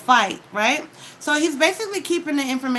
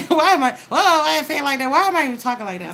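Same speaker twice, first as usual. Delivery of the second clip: higher, louder imitated regret, laughing at first; mock self-questioning; 5 semitones higher, 5 dB louder, faster than usual. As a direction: act out catching yourself after a blunder, exaggerated. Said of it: "you'll be like".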